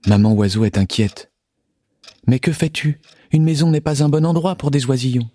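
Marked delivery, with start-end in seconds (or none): 2.3-5.3 higher, fretful mother bird; worried little bird voice. Acted.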